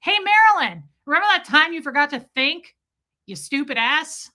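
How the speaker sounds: high, loud mocking taunt; mock-taunting jab; retold taunt. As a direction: needle Marilyn with it. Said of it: "I went".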